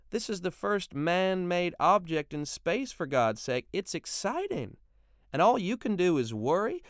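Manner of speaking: a wife chiding the men about their fears; Brenda the wife. Acted. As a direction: marvel at it while scolding the men. Brenda voiced at length.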